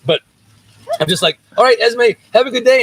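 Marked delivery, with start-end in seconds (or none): 1.6-2.8 cheery dad goodbye. Retold or imitated. Dad's cheery drop-off goodbye.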